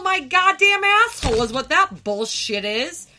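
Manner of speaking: real angry shout mid-rant; furious outburst. Real, not acted. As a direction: explode with real fury. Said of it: "She gets so mad".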